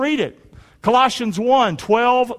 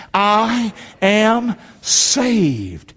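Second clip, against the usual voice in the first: one word at a time with long pauses; spaced out for others to echo; slow declaration; 3 semitones higher, much slower than usual. Shown as a demonstration. Preacher asks congregation to say it with him, slow declaration.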